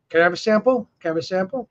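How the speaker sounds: lightly voiced parrot request; imitating begging parrot. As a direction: mimic a pet bird asking for food. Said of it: "he, he's like".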